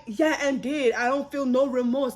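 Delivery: demon's remorseless attitude. Retold or imitated. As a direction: toss it off like an unrepentant demon. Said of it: "the attitude that thing had".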